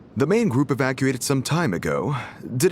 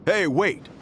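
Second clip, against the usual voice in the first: calling out; 7 semitones higher than usual. Acted. Calling after departing traveler.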